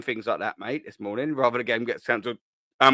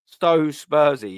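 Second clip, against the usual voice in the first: "So Spursy" drawn out slowly and louder; savoured repeat; 4 semitones higher, 5 dB louder, much slower than usual. Shown as a demonstration. Savouring the joke for the stream chat, slow and emphatic. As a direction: stretch out "So Spursy" like a punchline.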